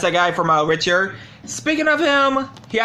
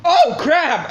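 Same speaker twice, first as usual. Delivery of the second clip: alarmed; 4 semitones higher, 3 dB louder than usual. Real, not acted. Disc slips while unboxing.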